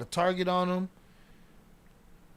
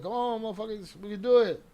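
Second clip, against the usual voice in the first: mock hype; 5 semitones higher than usual. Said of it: "trying to gas everybody up".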